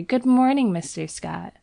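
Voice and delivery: a happy model greeting the painter; merry greeting. Acted. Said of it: "with a merry".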